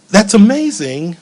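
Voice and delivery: tearful. Retold or imitated. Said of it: "through my tears".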